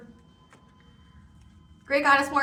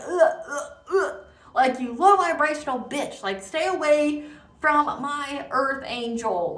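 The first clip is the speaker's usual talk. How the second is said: mock divine disgust, raised pitch and volume; pissed-off God; 5 semitones higher, 3 dB louder than usual. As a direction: act out God angrily warning someone off. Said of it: "God's, like, pissed".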